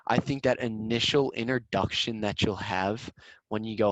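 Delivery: ordinary talk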